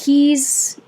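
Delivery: halting stutter fading to a whisper. Acted. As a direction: stumble over the word, trailing off. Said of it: "Mister P stuttered".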